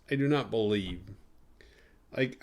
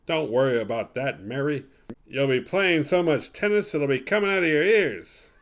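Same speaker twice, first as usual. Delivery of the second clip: a lightly voiced newsman, a bit louder toward the end; Walter Cronkite impression; 3 semitones higher, 5 dB louder than usual. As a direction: loosely mimic the old anchorman's steady reassurance. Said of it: "that Walter Cronkite thing".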